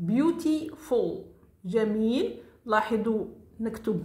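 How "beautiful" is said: beautiful stretched slowly syllable by syllable; drawn-out teacher demo; slow model word. Shown as a demonstration. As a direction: say it slowly for students to repeat. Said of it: "Beautiful كذلك".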